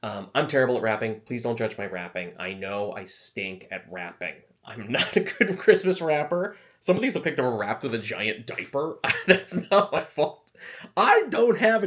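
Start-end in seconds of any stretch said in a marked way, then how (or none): 4.6-11.9 laughing. Real, not acted. Laughs at own wrapping.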